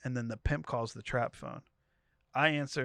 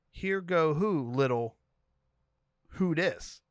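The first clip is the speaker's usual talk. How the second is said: the pimp; 4 semitones higher, slower than usual. Retold or imitated. Pimp demanding who the newcomers are, mildly hammed-up. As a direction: size up the strangers like a suspicious pimp.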